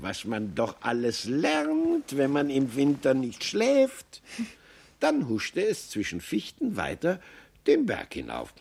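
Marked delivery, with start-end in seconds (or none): 0.0-4.2 drawn-out wondering marmot; slow musing. Acted. Maxel muses after slipping on ice, slow and pondering. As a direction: muse on it slowly. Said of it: "sagte das Murmeltier".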